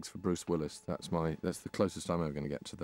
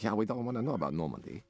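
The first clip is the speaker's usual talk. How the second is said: mock Japanese accent; 3 semitones higher than usual. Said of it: "That was my Japanese accent".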